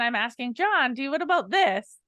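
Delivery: unsure uptalk, going up at the end of THIS; unsure, questioning. Shown as a demonstration. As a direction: make "what about this" climb like a question. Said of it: "I go up at the end of my sentence".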